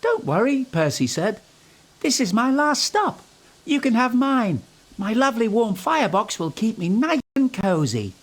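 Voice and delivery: high, loud little engine; cheerful high little engine; Percy offering coal, high and bright; Percy's voice. A narrator's reading.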